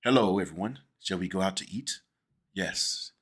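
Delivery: low, genteel Mid-Atlantic movie voice; Mid-Atlantic accent. Retold or imitated. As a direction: greet the room like a polished old-Hollywood host with a Mid-Atlantic accent. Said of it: "It's like this".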